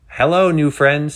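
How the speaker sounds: high, loud, stretched-out greeting; excited host. A narrator's reading. Penny greets new livecast viewers, excited. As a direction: welcome the crowd with showy cheer.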